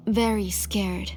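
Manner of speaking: slow, fearful whisper; scared whisper. Acted. Mother confessing her fear of the adopted child, whispered. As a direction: let the fear drop to a breath.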